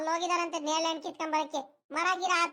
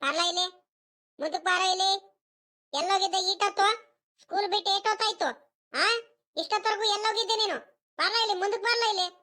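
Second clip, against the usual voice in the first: raised-pitch telling-off; scolding; 3 semitones higher than usual. Acted. Grandmother calls in her late grandson, scolding. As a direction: order the child over and demand answers. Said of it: "ಅಲ್ಲಿ ನಮ್ಮ ಅಜ್ಜಿ ಯಾಕ ರೇಗಾಡ್ತೈತೆ".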